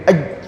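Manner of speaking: EJ cut off with no air escaping; held jim. Shown as a demonstration. Teacher showing how the tongue holds back air, held jim. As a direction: stop EJ with the tongue against the palate. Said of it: "tertahan, lidahnya kayak menahan".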